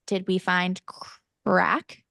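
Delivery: halting mock bafflement; puzzled retelling. Kids' friends looking at mom, puzzled by Irish slang. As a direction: pause before "crack", as if baffled. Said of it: "friends are all looking at me like".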